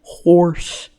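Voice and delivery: Horse whispered, no voice. Shown as a demonstration. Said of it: "trying pronunciations".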